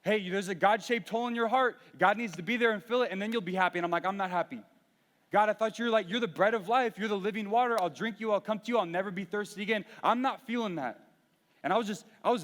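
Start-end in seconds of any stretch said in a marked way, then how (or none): 0.0-3.8 louder, higher mocking recital of sermon lines; a half-mock rant at God; venting mad. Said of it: "I'm mad because I'm like". 4.0-11.0 pleading rant, heated; venting to God. Retold or imitated. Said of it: "I'm venting to God".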